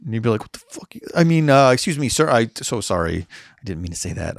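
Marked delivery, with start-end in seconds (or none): 0.4-0.9 unvoiced whispered curse, acted; muttered swear. Street performer accidentally swearing at guests, under the breath. 1.1-4.4 flustered apology. Acted. Street performer excusing himself to a guest, flustered.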